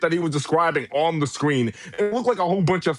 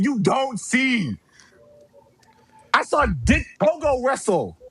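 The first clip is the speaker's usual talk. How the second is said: raised-pitch furious tirade; furious rant; 4 semitones higher than usual. Real, not acted. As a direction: tear into him, higher and heated. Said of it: "I'm shaking with rage".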